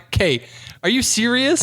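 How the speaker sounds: exasperated mock protest; incredulous outrage. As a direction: challenge a parent, playing up the shock. Retold outrage at parent.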